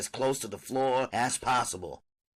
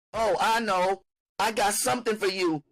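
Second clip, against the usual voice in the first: high mother voice; 10 semitones higher, 4 dB louder than usual. Acted. Mother tempts her daughter.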